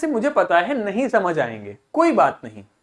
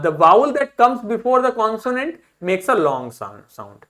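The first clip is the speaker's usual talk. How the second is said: very slow, word by word English rule; slow rule reading; much slower than usual. Shown as a demonstration. Teacher reading an English spelling rule to students, very slowly. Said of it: "teacher reading rule slowly".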